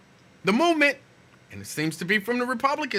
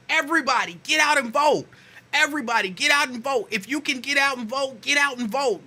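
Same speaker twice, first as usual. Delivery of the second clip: raised, lightly voiced campaign appeal; politician's rally call; 6 semitones higher than usual. Politician urging every citizen to vote, a light rally call. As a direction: call out to the crowd like an old-school politician. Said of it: "I remember when politicians used to encourage everybody".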